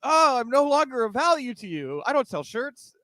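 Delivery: high, pleading put-on whine; hammed-up poor-me voice; mock Corbin whine. Co-host mocks Corbin claiming he's broke, high whiny put-on voice.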